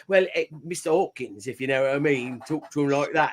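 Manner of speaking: mock British accent, dropping the H in Hawkins; hammed-up British accent; put-on British accent. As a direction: do a loose, rambling Cockney-style British accent. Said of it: "every other accent".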